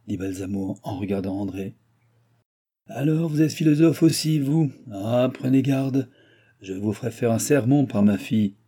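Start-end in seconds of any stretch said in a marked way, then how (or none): 2.9-8.6 lightly voiced baron, mock warning; sardonic old baron. Baron warning his guest about his daughter's sermons, mock-alarmed.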